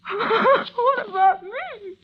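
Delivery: begging through rising tears; tearful pleading. Acted. Ann pleading with Phil as he leaves her, tearful.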